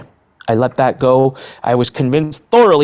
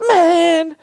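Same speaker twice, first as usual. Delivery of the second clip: imitated amazement; 3 dB louder than usual. Guard reacts to the sign.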